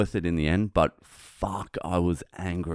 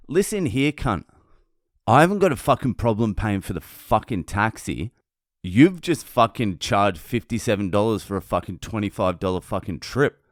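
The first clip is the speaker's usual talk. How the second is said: heated comeback, pitched up at the start; retold angry retort; 3 dB louder than usual. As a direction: reenact squaring up to the driver. Acted argument with taxi driver.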